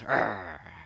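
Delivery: short voiced snarl. A narrator's reading. Brer Fox growls at the rabbit he caught, snarling. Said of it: "he snarls".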